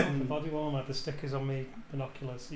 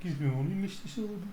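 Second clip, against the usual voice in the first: put-on Brummie accent; 3 semitones higher, 4 dB quieter than usual. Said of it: "in a Brummie accent".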